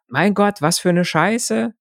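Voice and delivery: high, slow exasperated cursing. Retold or imitated. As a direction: groan it out in disgust. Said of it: "Ich benutze heute so viele Kraftausdrücke".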